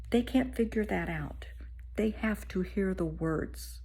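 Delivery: slow, hushed whisper; earnest whisper. Real, not acted. Speaker softly telling viewers what little kids need. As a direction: lean in and whisper the lesson.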